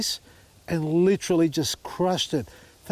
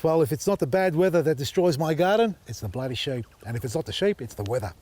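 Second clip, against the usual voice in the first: whinging. Pretend. Gardener whinging about sheep wrecking his veggie garden, mock moan. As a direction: sulk about the weather and the sheep like a sore loser. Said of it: "That's Vasily whinging for you".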